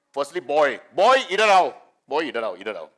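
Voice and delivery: mother's clumsy Hindi summons, mimicked; mãe com hindi ruim. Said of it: "in her bad Hindi says".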